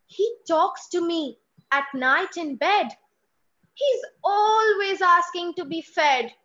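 put-on pleading child. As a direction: beg mummy to believe you. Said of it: "voice modulation from mummy to child".

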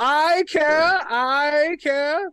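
high, put-on posh voice; a stuffy aristocrat announcing himself; posh character voice. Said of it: "When did you start rolling your R's?".

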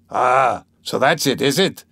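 drawn-out Ah of mocking surprise; surprised, malicious smile. A narrator's reading. Svidrigailov seeing Dunya's revolver, maliciously surprised. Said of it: "surprised but smiling maliciously".

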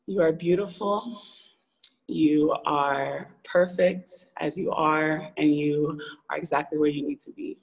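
gently measured, sincere comfort; retold reassurance. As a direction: imitate a kind stranger, letting each phrase settle. Retelling a cashier's kind reassurance.

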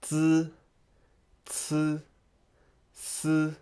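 Zi Ci Si with a buzzed vowel, held level; soft, separated Mandarin syllables, steady pitch; Pinyin pronunciation demo. Shown as a demonstration. Teacher gives the last line a try, Pinyin demo. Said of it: "how to pronounce them".

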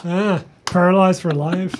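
slow, mock-tearful groan; mock lament. Co-host teasing about a punched fan, mock lament. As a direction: lament it slowly with exaggerated pity.

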